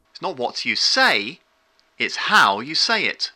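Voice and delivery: pause, then a deep, firm "how"; authoritative stress on how. Shown as a demonstration. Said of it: "A deeper tone on the how adds importance and authority".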